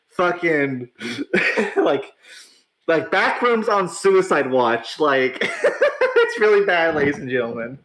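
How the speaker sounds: mocking words broken by laughter; laughing. Real, not acted. Streamer mocking a rival faction to viewers, laughing. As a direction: giggle while you mock them.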